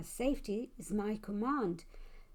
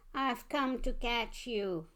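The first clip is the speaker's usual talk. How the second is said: monster groan; slower than usual. Acted. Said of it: "I heard it groan".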